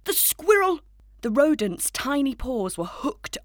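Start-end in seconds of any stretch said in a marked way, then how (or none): 0.0-0.8 high, loud, stretched-out alarmed cry. A narrator's reading. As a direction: call out in alarm, drawing it out. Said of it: "he cried".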